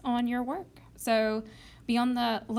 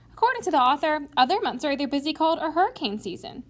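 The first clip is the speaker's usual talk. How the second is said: raised, confident citation; a touch higher and louder, sure of yourself; convincing; 4 semitones higher, 4 dB louder than usual. Pretend. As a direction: state the evidence like you've won the point. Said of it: "You sound pretty convincing".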